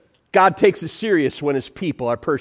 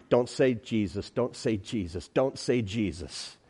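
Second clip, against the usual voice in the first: much softer hushed plea; pleading hush; 8 semitones lower, 11 dB quieter than usual. Acted. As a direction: beg under your breath. Pleading whisper before the answer.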